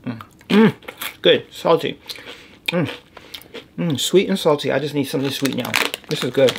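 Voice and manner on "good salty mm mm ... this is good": talking while chewing candy; mouth full. Real, not acted. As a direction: speak through a mouthful. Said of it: "I'm just ghetto with my mouth open".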